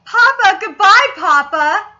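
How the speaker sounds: exaggerated quoted goodbye; mock anime farewell. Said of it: "They just said".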